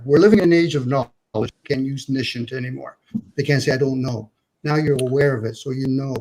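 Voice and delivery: popping, crackly mic sound; crackly usb mic. Real, not acted. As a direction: voice through a popping cheap mic. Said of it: "Dominic, your mic is popping".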